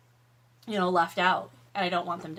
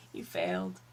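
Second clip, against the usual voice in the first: deadpan; 7 dB quieter than usual. Acted. Verdict to pumpkin.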